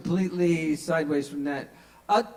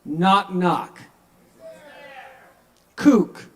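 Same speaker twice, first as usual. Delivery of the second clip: joke delivery; 3 semitones higher, 8 dB louder, much slower than usual. Acted. Performing the joke.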